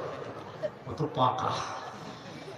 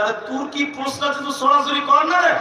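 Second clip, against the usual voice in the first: fear dropped, louder push to just ask; bold demand; 5 semitones higher, 3 dB louder than usual. Retold or imitated. Preacher pressing the boy, bold and louder. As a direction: stop fearing and demand the question. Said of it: "ভয়টাই ছেড়ে বলছে".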